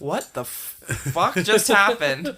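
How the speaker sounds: startled laugh. Real, not acted. Lights suddenly went out.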